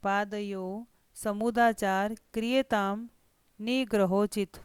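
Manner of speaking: slow, deliberate recitation; reciting Sanskrit verse. Shown as a demonstration. Teacher recites Abhimanyu's verse to students, slowly. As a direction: lay out each syllable of the verse. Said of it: "जिस प्रकार से यहाँ पर वो कहता है".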